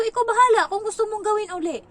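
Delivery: dismissive self-quote. Retold or imitated. Nanny replays telling the boy to do as he likes, high and dismissive. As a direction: wave it off, not your problem. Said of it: "Sabi ko".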